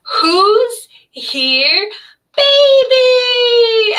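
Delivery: put-on high happy baby-talk cheer; excited motherese. Shown as a demonstration. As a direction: squeal it up high to delight a baby. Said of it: "my voice goes higher with babies, and that's called motherese".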